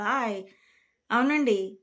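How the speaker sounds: lightly demonstrated Godavari accent with lengthened vowels. Shown as a demonstration. Showing viewers how Godavari district people talk, light Godavari accent. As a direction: draw out the vowels a little, Godavari-style. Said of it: "ఇలా ఆ దీర్ఘాలు వేరు".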